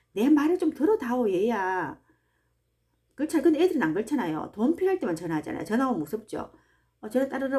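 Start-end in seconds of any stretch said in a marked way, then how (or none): 0.1-2.0 lightly acted parent's appeal, higher and louder; pleading parent. Parent asking a child to listen, lightly acted loud appeal. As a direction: appeal to your child, raised voice. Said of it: "부모가 자식에게 제일 원하는 게".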